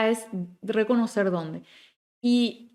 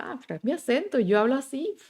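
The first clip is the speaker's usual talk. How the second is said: higher-pitched retold protest; proud, defensive; 4 semitones higher than usual. Teacher quoting her former self, proud and defensive. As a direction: stand up for your accent, lightly acted. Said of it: "yo fui muy orgullosa de mi R".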